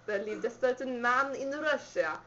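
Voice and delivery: failed Russian accent that comes out Italian; attempted Russian accent. Shown as a demonstration. Girl reading a song line in a failed Russian accent. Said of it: "me attempting to do a Russian accent".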